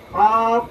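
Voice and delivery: over-heavy পাপ, mouth too wide; heavy vowel. Shown as a demonstration. Teacher shows students the faulty sound, heavy vowel. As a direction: say পাপ thick and full. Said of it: "মোটা হয় না এটা?".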